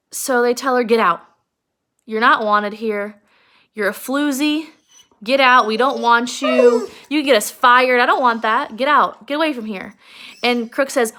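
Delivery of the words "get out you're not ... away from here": get out. Acted. The men order her out.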